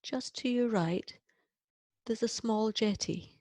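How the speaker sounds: unhurried meditation voice, long pauses between phrases; guided visualization. Acted. Leading listeners on a relaxing walk through a grassy glade, unhurried guided meditation. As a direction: ease them gently through the scene, phrase by phrase.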